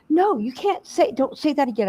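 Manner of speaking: mild put-on husband voice; imitating husband. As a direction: whine it like the fussy husband. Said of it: "And he's like".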